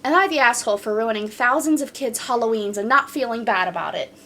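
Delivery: even, flowing reading of a post; story read-aloud. Acted. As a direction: read the account straight through, steadily. Reads a post title aloud.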